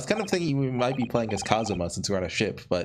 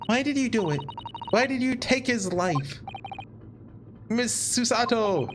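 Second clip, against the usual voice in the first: high, acted anguished demand; pleading, high-pitched accusation; 9 semitones higher than usual. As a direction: confront a killer, pitch raised throughout.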